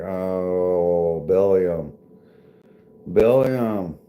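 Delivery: hammed-up announcer voice; mock announcer. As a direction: stretch "Twenty thousand" out like a game-show host. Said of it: "And be like".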